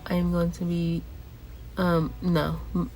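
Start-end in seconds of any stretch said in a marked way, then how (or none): 2.8-2.9 blocked nose, congested speech; stuffy nose. Real, not acted. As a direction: sound all stuffed up. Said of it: "I just sound, like, super stuffy".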